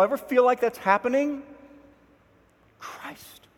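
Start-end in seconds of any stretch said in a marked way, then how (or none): 2.8-3.5 slow, breathy soft whisper of the lyric; hushed hymn line. Retold or imitated. Preacher quoting the hymn to the congregation, soft slow whisper. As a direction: murmur it like a private comfort.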